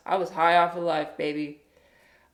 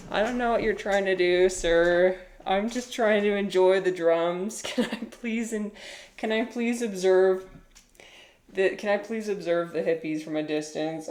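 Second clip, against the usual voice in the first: polite backing away; 2 semitones higher than usual. Retold or imitated. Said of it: "slowly backs away, like".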